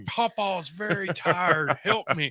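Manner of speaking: lightly voiced feeble old man, very slow. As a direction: ham up a tired old papa asking for help. Playing old helpless man.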